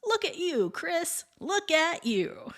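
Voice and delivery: high, excited mock cheer; enthusiastic praise. Science teacher cheering on a student, high and excited. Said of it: "enthusiastic shouts of".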